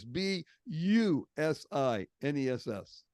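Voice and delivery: slow, deliberate spelling with space between letters; spelled out. Shown as a demonstration. Speaker spelling business to make a point, spelled out. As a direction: spell the word letter by letter, slowly.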